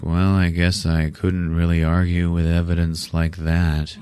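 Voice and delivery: mock sedated monotone; drugged out. Drugged patient answering the doctor's accusation, dazed mock voice. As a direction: imitate someone dazed and drugged, barely moving the pitch. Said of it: "she's all drugged out".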